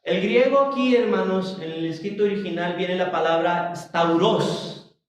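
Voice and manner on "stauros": stauros with the accent on the O; teacher's careful stauros, accented on the O; stress on final syllable. Shown as a demonstration. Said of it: "con acento en la O".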